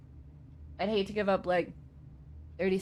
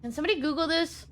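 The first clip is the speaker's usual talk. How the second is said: customer service voice; 9 semitones higher than usual. Acted. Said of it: "I've got a very good customer service voice".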